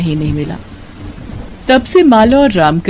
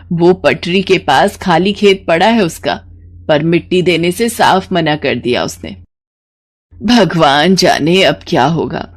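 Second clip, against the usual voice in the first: put-on bitter old mother-in-law. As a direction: complain about the heartless headman. Ramkali bitter, worried. (कड़वाहट भरी थकी सास)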